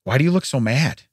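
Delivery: deadpan question, imitating a child; understated retold deadpan; straight-faced. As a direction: ask it with no emotion. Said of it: "says with a straight face".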